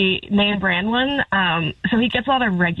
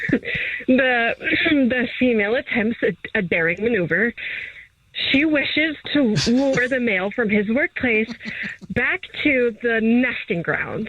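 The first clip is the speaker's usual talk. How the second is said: nature documentary narrator. Acted. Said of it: "sounding like a nature documentary narrator".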